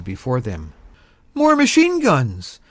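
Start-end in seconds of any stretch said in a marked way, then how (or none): 1.3-2.6 high, loud, drawn-out call; yelling. A narrator's reading. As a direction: yell it across to a fellow soldier. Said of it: "Bill yelled to Tom".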